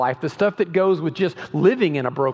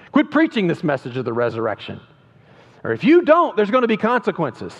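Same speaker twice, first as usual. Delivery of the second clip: loud threat; 3 dB louder than usual. Acted. Leaders warning Peter and John, loud threat. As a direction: threaten them with consequences.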